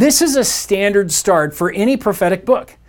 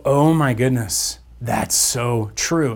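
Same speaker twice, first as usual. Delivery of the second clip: hushed realization; 7 semitones lower, 4 dB quieter, slower than usual. Pretend. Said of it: "it makes us go".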